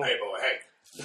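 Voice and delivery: drawn-out playful hey; slow goofy greeting. Retold or imitated.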